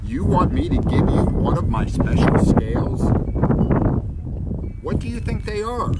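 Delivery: high, loud offended cry; indignant cry. Acted. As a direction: cry out, insulted and proud. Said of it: "cried the rainbow fish".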